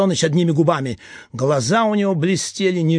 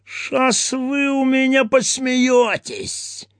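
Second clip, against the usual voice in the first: menacing threat; slower than usual. Acted. Eropkin threatening captive.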